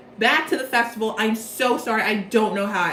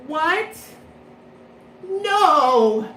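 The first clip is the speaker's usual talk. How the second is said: higher, loud cry of dismay; mock dismay; 5 semitones higher, 5 dB louder than usual. Leona hearing he can't play, mock dismayed cry. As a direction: protest being banned in disbelief. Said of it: "And then Leona's like".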